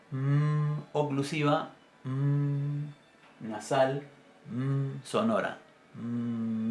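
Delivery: "mm" nasal con labios cerrados; m sostenida. Shown as a demonstration. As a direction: zumba la "mm" bilabial. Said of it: "es una bilabial". ("mm" nasal sonora)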